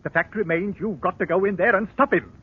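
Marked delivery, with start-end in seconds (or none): 2.0-2.3 insistent pressing. Acted. Pressing the constable, voice rising.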